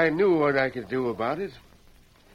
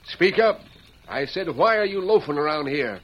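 barked order; 3 semitones higher, 5 dB louder than usual. Acted. Sheriff bullying Tonto on the platform, loud barked order. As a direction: shout him down.

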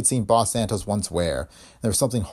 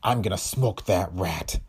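hissing through teeth. Acted. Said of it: "hissing between clenched teeth".

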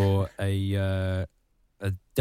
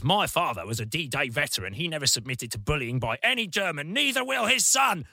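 mock defiant, rising to a higher shout at the end; quoting Francois; 4 semitones higher than usual. Francois defying Airbus in a BBC interview. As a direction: build up to a hammed-up patriotic shout. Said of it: "he goes".

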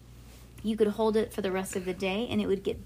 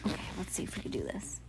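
whispering; 8 dB quieter, much faster than usual. Real, not acted. Careful phone setup.

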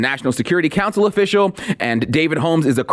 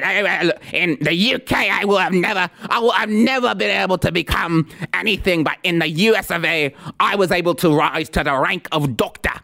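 a lightly put-on Brummie accent; mock Brummie accent; 3 semitones higher than usual. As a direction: caricature her as a pompous Brummie accent speaker. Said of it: "She has this Brummie accent".

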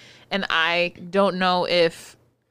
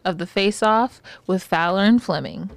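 announcer intro. Pretend. Host announces the show.

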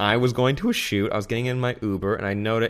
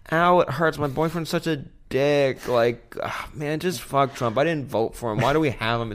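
mild mock yell, higher at first; retold yelling; 4 semitones higher than usual. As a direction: imitate a hurt passenger's griping without really shouting. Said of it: "the whole time she's yelling".

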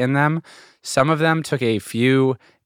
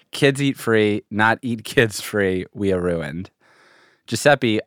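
lightly voiced stereotypical Italian pizzeria owner; light Italian accent. Reading out a pizzeria owner's joke tweets, light Italian accent. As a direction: read it with a reluctant touch of Italian accent. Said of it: "you, like, can't read it without doing the accent".

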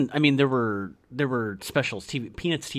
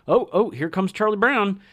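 higher, louder cartoon kid greeting; drawn-out mock greeting; Shermie; 8 semitones higher, 5 dB louder than usual. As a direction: call it out slowly as he approaches. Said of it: "and he's like".

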